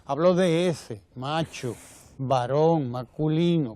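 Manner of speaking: playful mock-grand emphasis on macho varón masculino; jocular but emphatic. Real, not acted. To the audience, mocking the macho type, jokingly emphatic. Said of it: "eh, jocoso".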